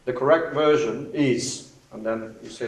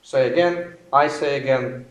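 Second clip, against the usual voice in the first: radio procedure demo. Shown as a demonstration. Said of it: "And here is an example".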